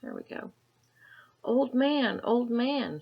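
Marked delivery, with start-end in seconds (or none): 1.4-3.0 put-on loud, high calling boy; shouting. A narrator's reading. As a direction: call out to the old man. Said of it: "shouted Chang".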